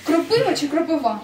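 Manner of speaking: "Кропива чи кропива?" read carefully, both stresses marked; careful stress contrast. Shown as a demonstration. Quizzing a student, careful stress contrast. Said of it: "правильно наголос поставити".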